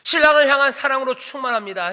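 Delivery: normal talking voice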